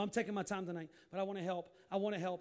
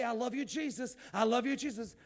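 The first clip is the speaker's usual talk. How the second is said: simple praise; 2 semitones higher, 5 dB louder than usual. Shown as a demonstration. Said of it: "Just say".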